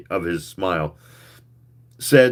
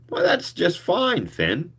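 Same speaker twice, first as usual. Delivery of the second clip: hearty cheer; 9 semitones higher, slower than usual. A narrator's reading. Cheerfully slapping friend's back.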